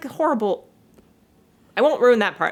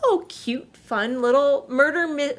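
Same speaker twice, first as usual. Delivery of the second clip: mock delight; 5 semitones higher, slower than usual. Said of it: "You're like".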